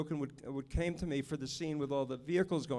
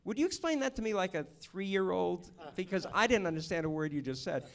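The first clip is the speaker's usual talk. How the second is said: lightly voiced gruff cameraman asking for it simple; a hint of an impatient cameraman; mock challenge; 4 semitones higher than usual. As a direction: tease like a blunt old pro. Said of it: "and he'd say".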